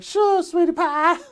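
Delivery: high, slow syrupy answer; mock sweet reply. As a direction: answer in her sugary manner. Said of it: "And I was like".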